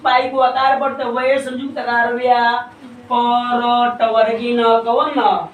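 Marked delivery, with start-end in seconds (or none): 1.1-4.6 spelling-out of व्याकरण, slowing on the last letters; हिज्जे करके उच्चारण. Shown as a demonstration. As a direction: build व्या from वय संयुक्त आकार, stretch टवर्गी न. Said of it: "इसको क्या कैसे करेंगे". (व्याकरण का अक्षर-अक्षर हिज्जे)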